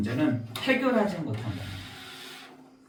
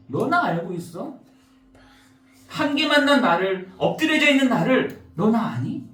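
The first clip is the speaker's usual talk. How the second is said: God asking back; 4 semitones higher than usual. Acted. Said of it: "라고 하나님이 되물으신다니까요".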